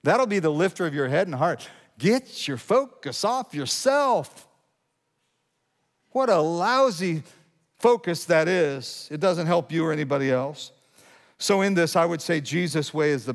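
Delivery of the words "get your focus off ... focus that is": scornful emphasis. Real, not acted. Preacher scorning self-focus.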